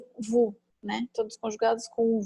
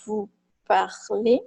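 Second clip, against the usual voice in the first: slow model phrase; 3 dB louder, much slower than usual. Shown as a demonstration. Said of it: "teacher models verb form".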